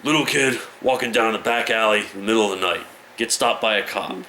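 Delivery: quick joke-teller's setup, a put-on voice; Lemmy tells the joke at four in the morning: brisk put-on voice; telling Lemmy's joke. Fast put-on joke narrator. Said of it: "The joke goes as so".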